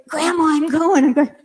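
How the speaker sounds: put-on a kid bursting to go; eager grandson. Eager grandson ready to zip.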